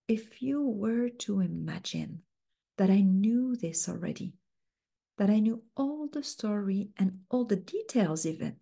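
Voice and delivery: gentle coaching question; slow, soft, inviting. Shown as a demonstration. Coach guiding the client gently forward. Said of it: "lots of softeners and talking very slowly".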